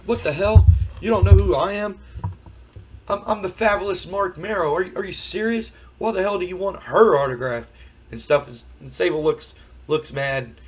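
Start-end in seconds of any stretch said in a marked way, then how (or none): 0.1-7.7 outraged Marc Mero. Retold or imitated. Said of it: "And he's like".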